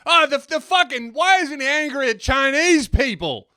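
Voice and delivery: high, loud sputtering outrage; splutter, then rant like an indignant commentator; hammed-up furious demand; mock anger. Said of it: "I just got angry".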